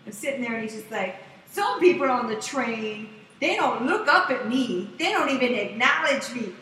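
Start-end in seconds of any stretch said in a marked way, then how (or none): 1.5-6.5 slow, pointed mock rant building to a long loud call; single out a rider, stretching the last words out loud; imitated nasty panhandler. Panhandler picking on a train rider, mock nasty rant. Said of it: "he would start getting nasty".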